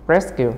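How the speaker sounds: "Rescue" stressed on RES; first-syllable stress. Shown as a demonstration. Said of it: "nhớ một".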